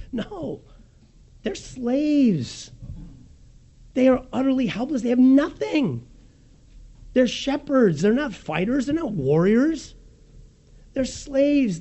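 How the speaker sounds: high and loud, hammering each short line; rising preacher's intensity. Acted. Pastor pressing the congregation about Israel's helplessness, loud preaching. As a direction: preach it with mounting force.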